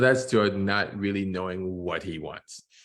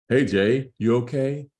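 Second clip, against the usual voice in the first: dad voice; 4 semitones higher, 5 dB louder than usual. Acted. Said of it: "I'm gonna try to do voices to distinguish".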